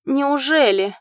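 high, loud thrilled gasp; can't believe her luck; delighted disbelief. A narrator's reading. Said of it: "загорелись неподдельным восторгом".

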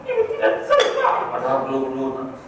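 very high, fast squealing rant; angry wife parody. Acted. Preacher parodying a woman in a rage, shrill and high. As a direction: ham up a furious woman.

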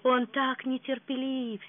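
tender sigh. Acted. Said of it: "с нежностью вздохнула утрата".

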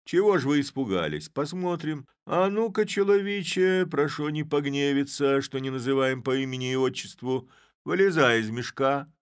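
loud, high mock-courteous call; Chub, mock-polite. A narrator's reading. Chub to the man in the sack, loud and mock-polite. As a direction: coax the stranger out with exaggerated politeness.

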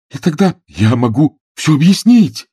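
a loud, high eager outburst; loud exclamation. A narrator's reading. Frederick cries out to Jen that he can explain everything, loud. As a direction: burst out, desperate to explain. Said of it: "воскликнул Фредерик".

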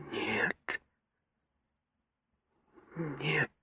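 mother whispering no in confusion; confused whisper. A narrator's reading. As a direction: whisper in dismay. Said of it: "прошептала мама в смятении".

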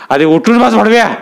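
high, contemptuous command; harsh order. Acted. Dada orders the beaten fisherman to sit up, harsh. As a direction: spit the insult out.

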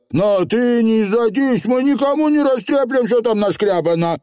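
high, lively dialect; little rogue promising secrecy; reassuring Feegle. A narrator's reading. Feegle soothing the angry witch, high and eager.

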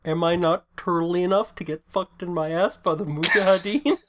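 lightly put-on goofy character voice; a hint of the Turtle Club guy. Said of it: "You sound like the Turtle Club guy".

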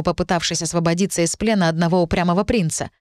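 ordinary delivery

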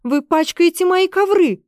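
high, indignant scolding shriek; outraged lady of the house. A narrator's reading. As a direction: Esther yells at soldiers about her carpets. Esther scolding soldiers.

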